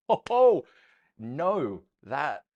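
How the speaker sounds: sudden high startled cry; startled, a high loud ho ho; surprised exclamation. Real, not acted. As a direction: caught off guard, yelp it out. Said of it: "surprise at something seen".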